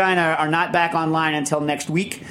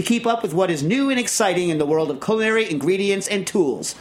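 monster truck ad; 4 semitones higher than usual. Acted. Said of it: "I heard the Sunday, Sunday, Sunday creep in there just a little bit".

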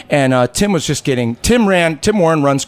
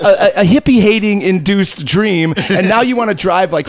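incredulous; 5 semitones higher than usual. Retold or imitated. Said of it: "I'm like".

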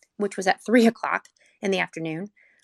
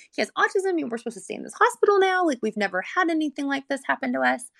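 much higher, rushing inner worry; mother alone in the hospital, frightened and overwhelmed; panicked thoughts; 6 semitones higher than usual. Retold or imitated. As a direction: let the panic climb and speed up.

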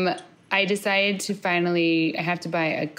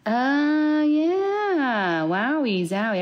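excited; 8 semitones higher, much slower than usual. Real, not acted. Sudden recognition.

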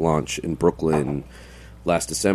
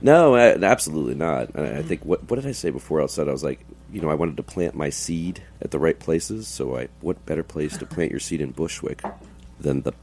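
gravelly voice. Real, not acted. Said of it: "Sound like an N F L football player".

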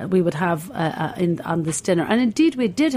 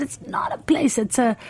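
a hint of a higher Italian stallholder; lightly voiced stallholder, pitched up; 5 semitones higher than usual. A stallholder correcting a tourist, lightly voiced higher. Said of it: "he said".

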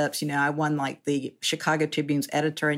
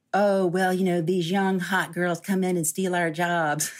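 mock Southern country accent; 3 semitones higher than usual. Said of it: "I'm doing that in a country accent".

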